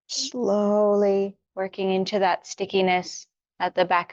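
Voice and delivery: unhurried yoga-teacher guidance with long pauses; guided meditation. Real, not acted. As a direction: gently talk them through each stretch, leaving room to breathe. Leads warm-up for meditation.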